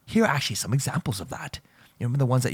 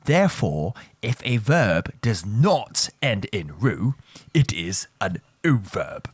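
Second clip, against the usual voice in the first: slow, stressing NOT; slow repeat; slower than usual. Shown as a demonstration. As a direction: drive the rule home a second time. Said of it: "let me repeat that for you one more time".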